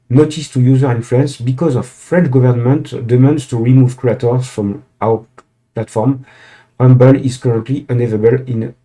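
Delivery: English read with a French accent. Real, not acted. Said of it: "Désolé pour, euh, mon accent".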